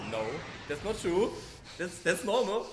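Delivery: high, loud mock disbelief; retold indignant protest. Retold protest to friend about mother.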